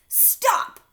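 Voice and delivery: loud, slow warning; threatening shout. A narrator's reading. Alexander aiming the stink blaster at fake Rip, loud threat. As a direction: bark it as a threat. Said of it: "he shouted".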